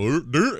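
imitated ghost noise. Describing a video-game ghost to co-host, imitated noise. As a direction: mimic a dim ghost bumping round a corner. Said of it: "come around the corner and go".

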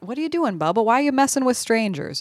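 upset Jack. Retold or imitated. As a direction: scold him in a lightly acted voice. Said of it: "Jack's kind of upset with Bubba".

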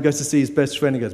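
ordinary delivery

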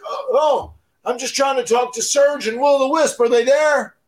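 high, pushed-up caller voice; Sandman on the phone. Retold or imitated. Sandman calling at three AM asks for the brothers, in a high voice. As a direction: ask sheepishly for the Hardys, pitched high.

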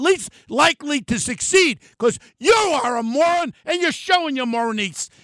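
heated, jabbing tirade at the governor; upset rant. Real, not acted. Voter berating the governor, furious. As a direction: tear into her, really worked up. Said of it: "I'm sorry for getting so upset like this".

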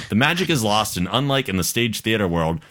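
measured, lilting read-aloud; listener email read-aloud. A narrator's reading. Host reading Kendra's email to listeners, measured read-aloud. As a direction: read the letter out for an audience. Rereads email, stumbling on word.

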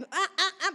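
jadeos adoloridos fingidos, entre risas; quejidos de contracción imitados. Retold or imitated. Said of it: "parecía como embarazada con contracción". (quejándose como con contracciones)

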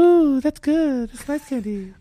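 put-on slow, high pinched kid voice. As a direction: drag it out in a creepy little voice. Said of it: "Oh, wow, that's weird. Don't do that".

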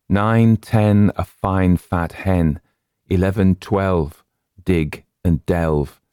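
measured rhyme, pausing after each pair; nursery rhyme recitation. A narrator's reading. Narrator recalling a written nursery rhyme, deliberate recitation. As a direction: count it out slowly in rhythm.

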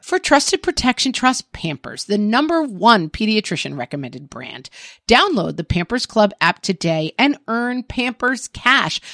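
upbeat podcast ad read. Acted. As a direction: sell it like a radio spot. Reads a Pampers ad.

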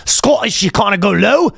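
lightly put-on Scottish lilt; Scottish accent. Shown as a demonstration. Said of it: "this is how you do it".

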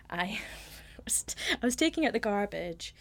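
put-on lightly American accent, said under the breath. Telling a podcast host about taking the bins out, hint of American accent. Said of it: "Sorry, I'm not American".

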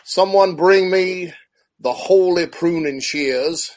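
slow, grand proclamation; hammed-up ritual decree; mock ceremonial priest. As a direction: intone it like a mock high priest. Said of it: "be like".

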